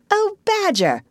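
high-pitched pleading animal character; Rat crying out. A narrator's reading. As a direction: call out in a high, relieved plea. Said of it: "cried the rat".

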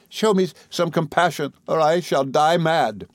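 high, desperate entreaty; Emily, begging. A narrator's reading. Emily crying to Rosa, desperate. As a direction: plead desperately, slowing at the end. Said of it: "cried Emily".

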